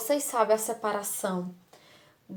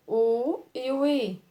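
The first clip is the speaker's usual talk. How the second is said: "O e o I" slowed and pressed; slow, deliberate "O e o I"; stressing the letters; 2 semitones higher, 4 dB louder than usual. Shown as a demonstration. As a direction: lean on "O" and "I" one by one. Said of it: "Quando você pronuncia".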